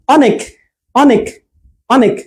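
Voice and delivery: quick, short অ opening অনেক; short vowel. Shown as a demonstration. Teacher showing students the short vowel, brief অ in অনেক. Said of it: "এই অটা কিন্তু অল্প সময়ের জন্য উচ্চারণ হচ্ছে".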